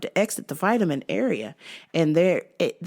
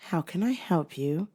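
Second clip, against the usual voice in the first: whisper; 6 dB quieter than usual. Retold or imitated. Clerk answers in a whisper.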